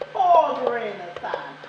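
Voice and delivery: hammed-up pity, slow; mock weeping. Shown as a demonstration. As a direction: lead the crowd in a fake lament. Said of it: "I want you to weep some tears".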